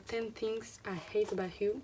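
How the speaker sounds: English film title in a heavy French accent; title in English with a strong French accent. Real, not acted. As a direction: read the English title the French way, a bit clumsily. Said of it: "Désolée pour mon accent anglais".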